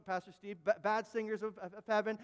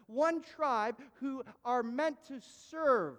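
slow, louder, leaning on each one; slow emphatic preaching; 4 semitones higher, 4 dB louder than usual. Acted. Preacher stressing that one tribe was chosen. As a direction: build it slowly, one by one.

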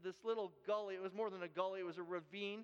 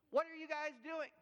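raised, higher demand; retold yell; 6 semitones higher, 3 dB louder than usual. Worker yelling at the uncle, raised and demanding. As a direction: call out the intruders sharply. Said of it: "he's yelling at my uncle".

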